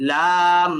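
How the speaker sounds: লাম said with the mouth opened on a long aa; wide, held aa in লাম; open-mouthed demo. Shown as a demonstration. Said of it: "এটা মূলত মুখ খুলে বলতেছি".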